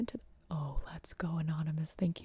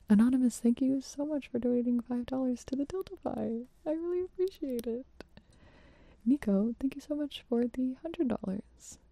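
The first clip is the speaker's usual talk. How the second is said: loud thanks; 3 semitones higher, 4 dB louder than usual. Real, not acted. Thanking donors aloud between whispers.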